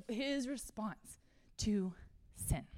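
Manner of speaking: hushed whisper. Real, not acted. Preacher whispering to the room about response to sin. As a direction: drop to a whisper for weight. Dramatic close of psalm setup.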